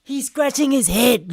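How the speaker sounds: high, slow, without shouting; incredulous repeat. Real, not acted. Reactor marvelling at the hesitating boyfriend, toned-down disbelief. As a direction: restate it in drawn-out disbelief.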